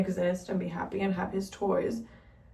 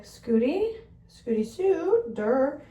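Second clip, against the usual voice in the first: high, rising pet-name voice; higher, singsong and silly; playful cutesy reply; 5 semitones higher, much slower than usual. Retold or imitated. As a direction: lilt up on the cat's name, playfully. Retells naming her chosen cat.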